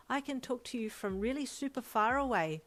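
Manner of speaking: put-on bright, eager little boy; proud and bubbly; excited child. A narrator's reading. Little boy shows off his new quirk, excited. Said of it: "he replied excitedly".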